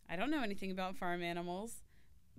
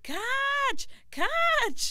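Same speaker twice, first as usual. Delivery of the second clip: repeated high screams, each louder; frantic, very high full-force yells; screaming; 11 dB louder, much slower than usual. A narrator's reading. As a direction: scream the word over and over, building. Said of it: "Gulu screamed".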